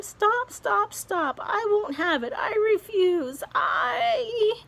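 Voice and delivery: high frantic protest; panicked refusal. Acted. Earthworm refusing to be bait, high frantic protest. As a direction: plead in rising panic.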